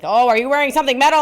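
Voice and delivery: high, fast guard question; mocking security guard. Security guard to her, high and quick. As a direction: mimic the airport guard, up and quick. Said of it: "when you beep".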